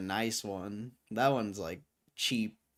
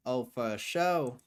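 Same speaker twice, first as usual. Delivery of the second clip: drawled country twang, slow; slower than usual. Pretend. Streamer playing up a country vibe, twangy drawl. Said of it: "With the twang".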